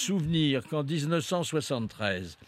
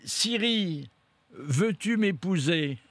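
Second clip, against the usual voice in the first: talking to Siri; 3 semitones higher than usual. Real, not acted. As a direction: speak up so the phone understands. Addressing voice assistant Siri.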